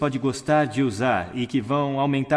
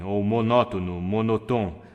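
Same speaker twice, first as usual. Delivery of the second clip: flat one-note delivery on monótono and monotom; monotone; 3 semitones lower, slower than usual. Shown as a demonstration. Speaker demonstrating monotone to an audience, all on one note. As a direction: drone it out on one pitch. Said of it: "o mundo monotônico vem".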